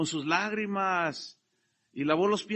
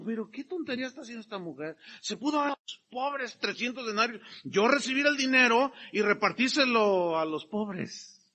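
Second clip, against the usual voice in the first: lightly hammed-up hypocrite; mock pious tone; 4 semitones higher than usual. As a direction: sound holy while scheming. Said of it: "se oía muy piadoso".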